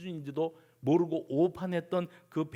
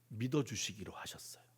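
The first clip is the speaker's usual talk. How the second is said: sudden low, whispery softness; hushed; 7 semitones lower, 10 dB quieter than usual. Real, not acted. Preacher tells of Jesus choosing to trust Peter, hushed. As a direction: drop to a gentle near-whisper.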